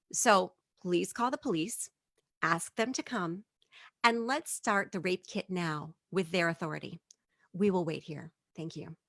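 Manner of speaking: calm, measured request; politely firm, keeping emotion out; collected voice of reason. Retold or imitated. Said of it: "the collected voice of reason".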